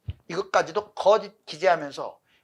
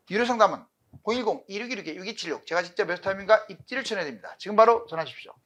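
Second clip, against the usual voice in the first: quick pitchy ad read; hard sell ad; faster than usual. Acted. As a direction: rattle off the number like an ad. Reads paid-consultation phone ad. (빠른 광고 멘트)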